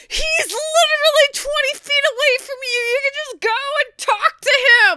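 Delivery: high, loud, fast yelling at the characters; high-pitched exasperated yell; mock exasperated yell. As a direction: shout in disbelief at the TV. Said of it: "and I'm like".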